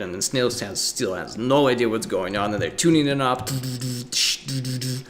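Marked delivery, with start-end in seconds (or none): 3.5-5.0 vocal rock riff. Retold or imitated. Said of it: "rock and roll music".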